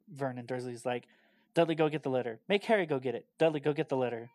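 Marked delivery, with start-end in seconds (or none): 1.5-4.3 bossy dad yelling orders at his son; barking orders. Retold or imitated. Vernon barking orders at Dudley.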